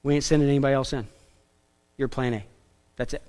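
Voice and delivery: lightly voiced commander, low and understated; brief the men quietly before the drop; a hint of a low, terse movie officer; war-movie commander. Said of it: "the commander looks at him and says".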